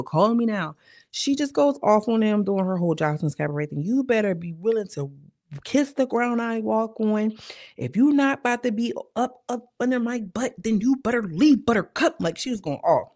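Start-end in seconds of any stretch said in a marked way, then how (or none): 0.0-0.8 Miss Cleo. Pretend. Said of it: "Why I sound like Miss Cleo?". 3.8-12.2 hammed-up diva madam. Jocelyn going off, madam act.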